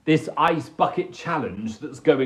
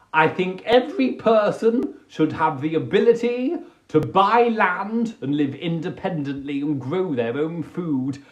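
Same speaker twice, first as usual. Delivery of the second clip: ordinary talk, nothing marked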